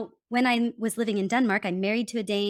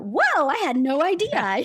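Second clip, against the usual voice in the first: mock surprise; 6 semitones higher, 4 dB louder than usual. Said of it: "suddenly it's like".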